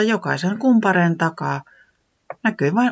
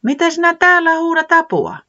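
owl asking; 7 dB louder than usual. Acted. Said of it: "Pöllis kysyi".

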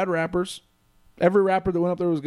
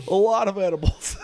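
laughing; 4 semitones higher than usual. Real, not acted. Laughing about edibles at show.

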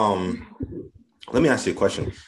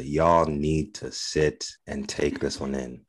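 late night radio voice; 2 semitones lower, slower than usual. Real, not acted. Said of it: "I have my late night radio voice on right now".

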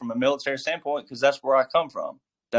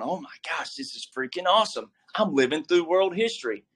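mock excited; 5 semitones higher, 3 dB quieter than usual. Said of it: "You should be pumped up, fired up".

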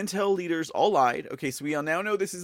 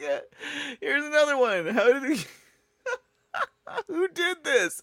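high, louder, laughing disbelief; 12 semitones higher, 4 dB louder than usual. Real, not acted. Host shows another photo to viewers, laughing in disbelief. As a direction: gasp through giggles.

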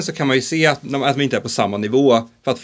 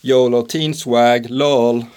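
mock teen slang; much slower than usual. Shown as a demonstration. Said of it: "Om jag skulle säga".

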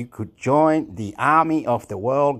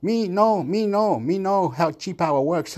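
mock protest; 6 semitones higher than usual. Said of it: "then people say".

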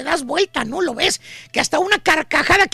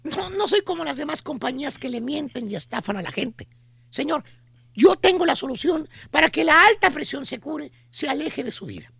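lightly voiced mall saleswoman, softer and lower; pushy saleswoman; 4 semitones lower, 5 dB quieter than usual. Mall saleswoman selling a miracle cure, softer and lower. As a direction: play the sweet-talking pitch lady. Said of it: "la chuntara con el típico folletito".

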